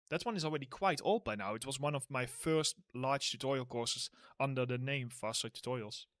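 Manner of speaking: sore throat. Real, not acted. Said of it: "my throat is starting to hurt a bit from talking".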